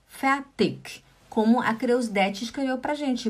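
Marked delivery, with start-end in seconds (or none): 0.1-1.0 fertig ending in a clear k sound. Shown as a demonstration. Teacher showing the k ending of fertig. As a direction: fertig finished with a crisp final k. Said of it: "com K no final".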